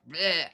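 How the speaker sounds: low, soft noise of distaste; disgusted bleh. Shown as a demonstration. Reacting to the job numbers, dismissive bleh. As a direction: let out a throwaway bleh. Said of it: "that's what I say".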